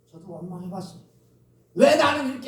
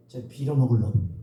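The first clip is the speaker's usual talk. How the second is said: much lower, mock scolding curse; curse heard growing up; 11 semitones lower than usual. Preacher imitating an elder cursing him as a child, low mock scolding. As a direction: growl the old insult like a scolding elder. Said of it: "많이 들은 말이 있어요".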